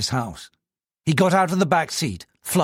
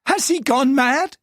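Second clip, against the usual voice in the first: alarmed question; 12 semitones higher, slower than usual. Acted. Wife alarmed.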